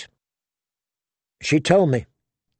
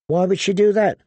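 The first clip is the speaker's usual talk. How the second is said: startled; 6 semitones higher than usual. A narrator's reading.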